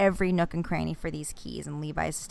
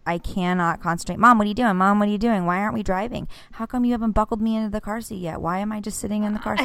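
frazzled mom; 4 semitones higher than usual. Retold or imitated. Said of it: "and I'm just like".

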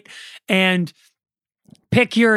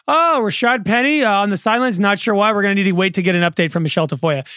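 mock announcer. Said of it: "the announcers are like".

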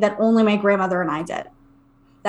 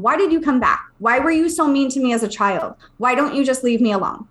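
fed-up mom; 2 semitones higher than usual. Retold or imitated. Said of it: "my mom had had enough of this".

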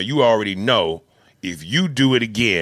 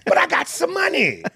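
pleading. Retold or imitated. Acted protest.

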